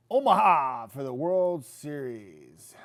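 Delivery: loud, drawn-out announcer flourish; excited build-up. Real, not acted. Host hyping the team's road to Omaha, excited. Announcing the big destination with relish.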